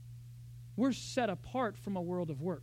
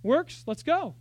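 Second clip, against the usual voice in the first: louder, raised challenging voice; Paul taunting; 5 semitones higher, 8 dB louder than usual. Retold or imitated. Paul daring his rivals, loud taunt. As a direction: bring it on, mock-swagger. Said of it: "He says".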